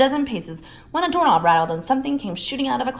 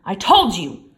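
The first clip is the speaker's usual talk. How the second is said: loud, hurried urging; urgent Ron; 8 dB louder than usual. A narrator's reading. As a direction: rush the words, pressing to get away. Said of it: "said Ron".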